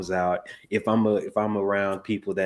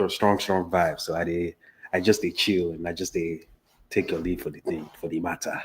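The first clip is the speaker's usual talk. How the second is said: relaxed Nigerian Pidgin; Nigerian accent. Shown as a demonstration. Podcast guest showing their accent, casual Nigerian Pidgin. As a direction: chat easily in Nigerian Pidgin English. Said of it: "talk in your accent".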